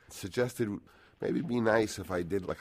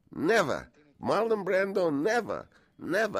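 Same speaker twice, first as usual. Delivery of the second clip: high, loud cries of never, higher on the name; shouting never as if it can't happen; incredulous shout; 13 semitones higher, 5 dB louder than usual. Retold or imitated. Studio head refusing Brando on video, shouting. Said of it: "and he says".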